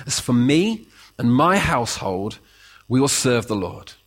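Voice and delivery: steady, resolute claim; mean every word; firm sincere claim. Shown as a demonstration. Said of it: "difference between when you claim that".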